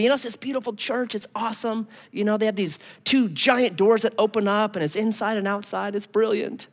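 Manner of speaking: high, quick, breathless gushing; gushing bride. Pretend. Bride gushing to a friend about the church, high and quick.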